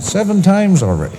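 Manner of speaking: high, proud report; boastful. Acted. Old George bragging to his doctor, high and elated. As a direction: brag it high and eager.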